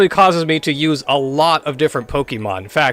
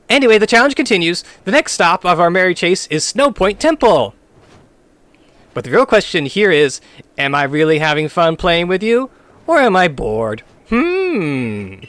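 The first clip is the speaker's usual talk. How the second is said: character voice; 2 semitones higher than usual. Acted. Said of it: "how you do the voice act".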